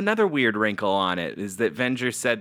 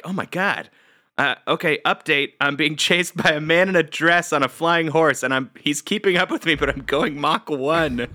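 panicked pilot; 5 semitones higher, 3 dB louder than usual. Retold or imitated. Panicked pilot radioing home.

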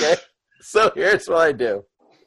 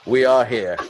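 low, plodding orc voice; deep, deadpan echo of a squeaky sidekick; Boom Boom; 5 semitones lower than usual. Acted. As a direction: say it low and simply, word by word. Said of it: "And I'm like".

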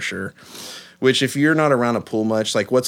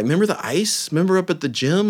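put-on teasing kids; 7 semitones higher than usual. Voicing kids.

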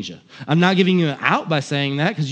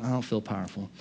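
muted doubt; 6 semitones lower, 12 dB quieter than usual. Retold or imitated. Voicing a doubter's muted reaction.

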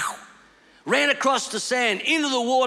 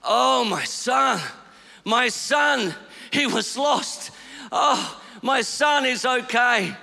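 relieved; 4 semitones higher, much slower than usual. Real, not acted. Father relieved son is safe.

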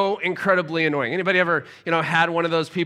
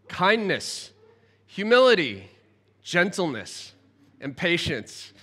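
slow, measured reading of a Bible passage; scripture reading. Acted. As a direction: read the verse with weight. Reads scripture aloud.

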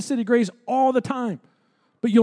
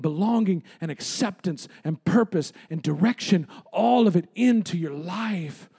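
lower, measured preacher's voice; tender preaching; 3 semitones lower than usual. Real, not acted. Preacher assuring the congregation of people who love them, tender preaching.

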